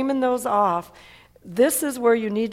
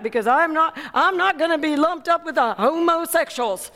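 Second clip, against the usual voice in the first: excited retort; 6 semitones higher than usual. Retold or imitated. Formerly shy man eagerly tells pastor why he now talks. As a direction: blurt it out eagerly, stressing not. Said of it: "That's exactly how he said it".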